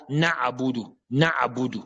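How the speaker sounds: na'budu run on as "na-abudu"; wrong open ayn. Shown as a demonstration. Teacher imitating how some recite Al-Fatiha, wrongly vowelled. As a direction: add a second vowel after na, no break before budu. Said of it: "Ce n'est pas comme certains disent".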